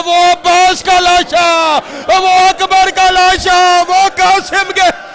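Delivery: slow, loud, high wailing cry; anguished lament. Acted. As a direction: cry out each name in grief. Husain mourning the fallen, shouting. (غم سے چیخ کر، آہستہ آہستہ)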